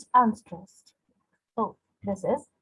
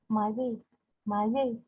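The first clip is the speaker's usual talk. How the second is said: "My way" light and softer; no punch on either word of "My way"; two unstressed syllables; 5 dB quieter than usual. Shown as a demonstration. Teacher demonstrating a pyrrhic foot, both syllables unstressed. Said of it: "The two unstressed".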